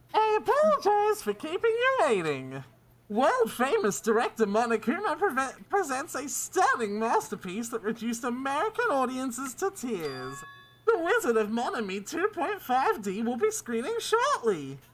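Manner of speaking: muffled speech. Speaker holds a hand over the mouth to simulate an effect: muffled, hand over mouth. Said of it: "I have to do it with my hand over my mouth".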